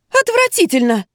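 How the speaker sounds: very high, loud shriek of disgust. A narrator's reading. A furious mother shrieks in the lingerie shop. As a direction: shriek it out in outrage. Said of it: "завизжала дамочка".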